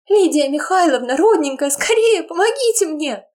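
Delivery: high hysterical woman's scream; hysterical cry. Acted. Woman screaming to the housekeeper, hysterical. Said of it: "Истеричный крик женщины".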